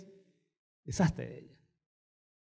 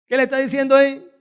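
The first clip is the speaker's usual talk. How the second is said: quick emphatic question; 5 semitones higher, 5 dB louder, faster than usual. Shown as a demonstration.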